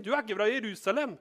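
high, loud mocking jab; teasing accusation. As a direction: needle him about where he's from. Accuser names his dialect. (høy, ertende anklage)

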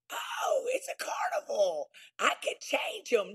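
breathy mock-naive gushing, the opening oh jumping way up; naive past self. Mocking her younger self's naive carnival talk to the host. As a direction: play her younger self brushing off the red flags. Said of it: "I'm like".

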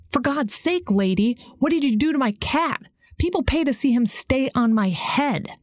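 fuming owner. Acted. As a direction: sputter it out like a man whose show just got ruined.

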